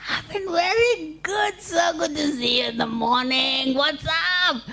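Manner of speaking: high, squeaky bunny reply; chirpy rabbit. Acted. Rabbit replies to his friend's greeting, high cheery squeak. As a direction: answer brightly in a high animal voice.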